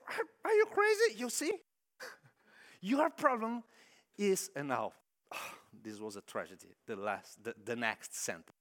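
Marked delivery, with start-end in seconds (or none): 0.1-4.5 high, loud, incredulous yelp; shocked and laughing at him; outraged disbelief. Retold or imitated. Church lady outraged at the missionary, shrieking disbelief.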